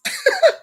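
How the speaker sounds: a quick high chuckle; short high laugh. Real, not acted. Joking about Facebook to her viewers, a short high laugh. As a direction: let a brief high laugh slip.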